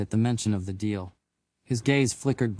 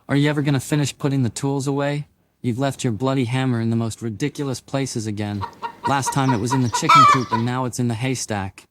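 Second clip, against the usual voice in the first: fast, louder nagging scold; 2 semitones higher, 5 dB louder than usual. Acted. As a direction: tick him off for the tools. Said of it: "her voice cutting through the air".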